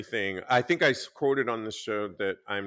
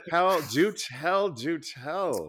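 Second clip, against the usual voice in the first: eager; 6 semitones higher, slower than usual. Real, not acted. Host eager for engagement story.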